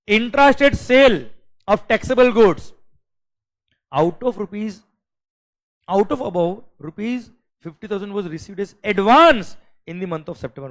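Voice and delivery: loud slow exam dictation; slow question reading. Shown as a demonstration. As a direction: spell the question out for the class. Teacher reads question aloud.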